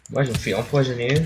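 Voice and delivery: parlé vite en courant; débit pressé en pleine course. Real, not acted. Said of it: "je suis en train de courir". (en courant)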